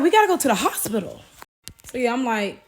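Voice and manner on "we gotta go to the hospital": urgent retold plea. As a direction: blurt it out in a hurry. Acted urgent plea to leave.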